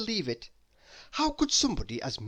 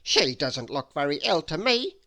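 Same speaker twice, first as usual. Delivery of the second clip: complaining; 5 dB louder than usual. Acted. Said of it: "complained Mister Mean to the wizard".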